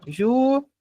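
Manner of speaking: Ju-ra-ci-co in four separate beats, long pauses between; syllable by syllable. Shown as a demonstration. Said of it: "contar certinho das sílabas".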